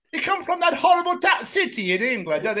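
mock Italian outrage, starting high; Italian accent. Italian scorning Jamie's English home city, hammed-up Italian accent. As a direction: rant in a comic Italian accent. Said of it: "does an Italian accent".

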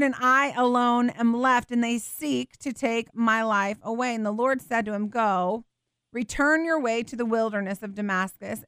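measured, solemn Bible reading; scripture reading. Acted. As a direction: read the passage aloud to the congregation with reverence. Second reading of the passage.

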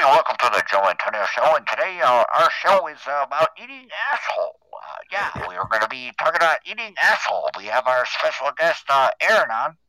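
1940s radio announcer; big showy radio host intro; old-timey radio host. Pretend. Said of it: "Old-timey radio".

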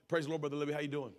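mildly put-on church greeting; everyday church pleasantry, lightly acted; putting on a good side. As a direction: lightly mimic a polite front on the phone. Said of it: "Put on our good side".

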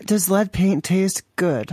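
slow, spaced-out "does lead paint taste good". Real, not acted. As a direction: repeat the question slowly for someone who missed it. Repeats after listener says "Does what?.

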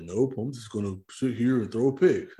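lightly voiced dopey quarterback; a light, dismissive mock of the clueless QB; mocking Brock Osweiler. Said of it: "That's what he sounds like".

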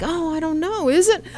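ordinary talk

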